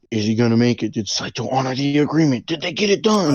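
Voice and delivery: building cliffhanger questions, climbing in pitch; playful dramatic build-up, ending high; mock suspense. Hyping up the film's suspense.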